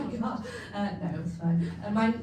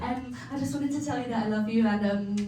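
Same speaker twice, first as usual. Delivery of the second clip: high, laughing, wobbly mock goodbye; hammed-up teary goodbye to boyfriend; tearful farewell call; 6 semitones higher than usual. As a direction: play the dramatic last phone call. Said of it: "I was like".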